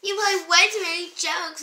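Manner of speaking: high, mock-upset complaint; imitating crying sister. Retelling sister upset by a prank, mock crying.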